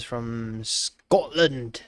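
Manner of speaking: slow, drawn-out attempt at a Scottish accent; badly faked Scottish accent. Streamer reads out where it is from, in a bad Scottish accent. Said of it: "My Scottish accent is very bad".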